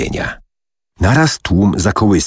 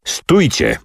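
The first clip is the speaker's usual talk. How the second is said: higher-pitched command to halt; calling out; 7 semitones higher than usual. A narrator's reading. The leader halts his eager fighters, calling out. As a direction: call them to a stop, pitch up, volume held. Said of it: "zawołał".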